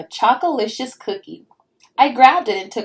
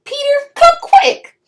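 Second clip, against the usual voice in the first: high, loud call to Peter; shouting; 9 dB louder than usual. A narrator's reading. Girl calling her brother to come see, shouting. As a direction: call out for your brother, urgently. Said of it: "I shouted".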